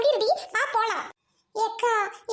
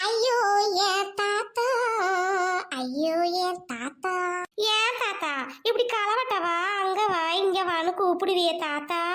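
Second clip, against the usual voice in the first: mock lament; 2 semitones lower than usual. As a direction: stretch each தாத்தா like a paid mourner. Hired mourners fake oppari lament. (நீட்டி இழுத்த போலி ஒப்பாரி)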